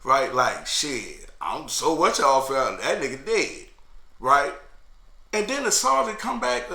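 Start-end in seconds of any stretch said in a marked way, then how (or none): 0.7-3.7 light giggle through the words; chuckling at the news; giggling. Retold or imitated.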